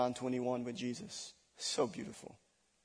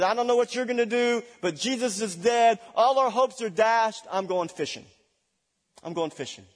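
higher, louder, fast lament; a hint of a defeated disciple; despairing Peter; 8 semitones higher, 6 dB louder than usual. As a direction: throw up your hands in defeat.

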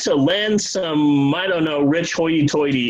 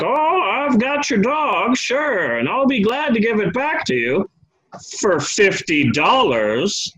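rancher; 4 semitones higher than usual. Retold or imitated. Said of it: "the rancher's like".

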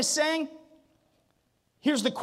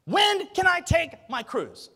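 rising, mock-whiny pleas; half-hearted whiny questions; whiny complainer; 4 semitones higher, 3 dB louder than usual. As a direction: sound like a fretting churchgoer. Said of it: "the only question you can come up with is".

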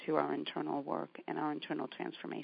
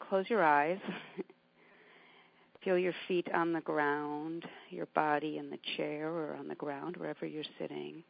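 calm grounding exercise. Acted. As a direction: gently talk them into their breath. Leads a grounding meditation.

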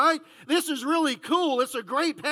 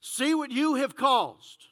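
accusing tone; slower than usual. Shown as a demonstration. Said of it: "we do it".

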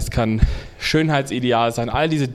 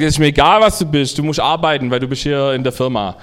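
louder, bossy foreman; scolding foreman; 4 dB louder than usual. Acted. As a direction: shout him back to work.

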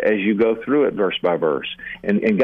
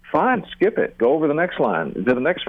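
breezy dismissal; 4 semitones higher than usual. Real, not acted. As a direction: pitch jumps high on Fine, then lets it go. Brushing off an unclear verse.

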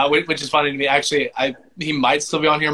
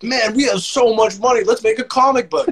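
mock rich guy; 8 semitones higher than usual.

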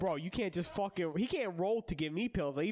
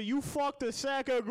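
dramatic last words; 6 semitones higher, 3 dB louder than usual. Acted. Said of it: "And my last words are".

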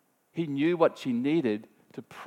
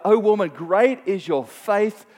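slow, louder, solemn praise; Jesus praising; 5 semitones higher, 6 dB louder than usual. Acted. Jesus praising the woman's great faith, slow and solemn. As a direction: bless her slowly and warmly.

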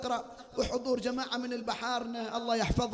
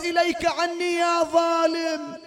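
raised, defiant cry at the oppressor; angry rebuke; 3 semitones higher, 4 dB louder than usual. Acted. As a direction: shout it back at the tyrant. Zaynab rebukes her attacker.

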